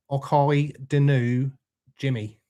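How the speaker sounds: lightly put-on Scottish accent, slowed down; your best amateur Scottish accent. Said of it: "That's my best Scottish accent for you".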